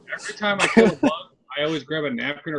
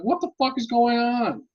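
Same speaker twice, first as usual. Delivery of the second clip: retold bafflement; 8 semitones higher, slower than usual. Retold bafflement at a weird morning scene.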